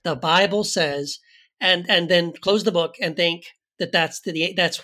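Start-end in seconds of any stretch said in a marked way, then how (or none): 0.0-1.2 slow, smug mock proof-texter; smug know-it-all. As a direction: drag it out like you've won. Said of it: "read any verse and go".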